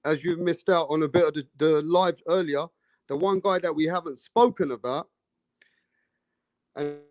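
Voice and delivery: choppy cutting-out connection; breaking up audio. Real, not acted. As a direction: voice dropping out over bad line. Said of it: "I think you breaking up".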